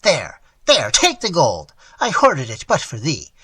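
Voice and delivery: put-on old man begging his ward to take the gold; pleading exclamation. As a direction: beg him with sudden energy. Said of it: "with sudden energy, he exclaimed".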